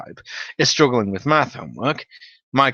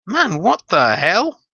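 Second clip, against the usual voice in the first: slow confused exclamation; 7 semitones higher, 3 dB louder, slower than usual. Retold or imitated. Stoner confused, concerned.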